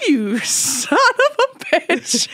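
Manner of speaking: high, very drawn-out cursing; mock outburst. Host acting out the Mary bit, hammed-up outburst. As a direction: stretch the curse out in hammed-up disbelief.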